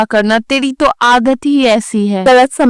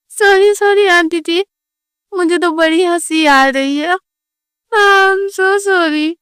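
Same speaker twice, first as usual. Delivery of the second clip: mock apology; 4 semitones higher than usual. Insincere apology while laughing.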